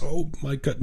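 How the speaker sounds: put-on a touch of an Italian accent, lifted high. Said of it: "with this beautiful accent".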